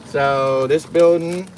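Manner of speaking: talking around a cigarette in mouth; slow words with a cigarette between lips. Real, not acted. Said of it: "Got me with a cigarette in my mouth".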